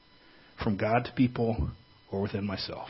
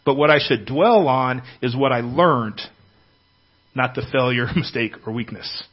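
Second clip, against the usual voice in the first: louder, forceful preaching; 7 dB louder than usual. Real, not acted.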